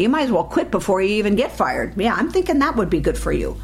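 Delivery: scolding inner voice, fast; harsh inner critic. Retold or imitated. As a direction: berate yourself with contempt. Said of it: "you note that inner voice saying".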